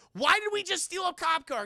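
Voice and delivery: high, loud panicky voice; high panicked Josh. Retold or imitated. Josh after stealing the cop car, high panic. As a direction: squeak it in mock panic. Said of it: "and Josh is like".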